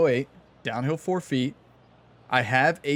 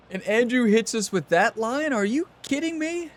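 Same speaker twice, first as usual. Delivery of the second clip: laughing disbelief, pitched up high; amused, high-pitched disbelief; incredulous; 6 semitones higher than usual. Real, not acted. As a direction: rise sharply into a baffled question. Incredulous reaction to game commentary.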